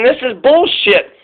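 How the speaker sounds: slow, drawn-out exasperated rant; fed-up public. Retold or imitated. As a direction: drag every word out like you're sick of it. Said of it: "the American people just keep saying".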